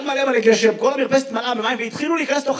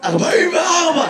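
mock hoarse answer, pitched up; 4 semitones higher than usual. Audience man answers his age, mock hoarse. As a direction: lightly imitate a strained, hoarse man. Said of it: "למה אתה נשמע ככה".

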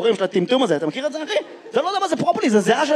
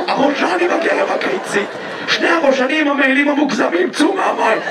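hammed-up strained yelling; shouting at tadpoles. Comedian as water worker ordering tadpoles out, mock shouting. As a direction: bawl orders at tiny offenders. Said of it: "אתה צעקת על ראשנים".

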